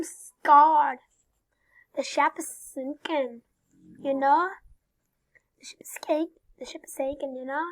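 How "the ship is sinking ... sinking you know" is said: put-on Irish accent. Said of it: "What kind of accent are you trying to do?".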